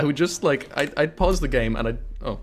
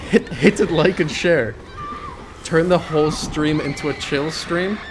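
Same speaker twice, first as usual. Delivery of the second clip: louder, higher hammed-up plug; YouTuber plug; 3 semitones higher, 3 dB louder, slower than usual. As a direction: push the like and share. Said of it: "every other YouTuber".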